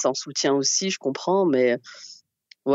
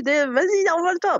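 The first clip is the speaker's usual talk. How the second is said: put-on yelling at kid; 13 semitones higher than usual. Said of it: "je lui gueule dessus".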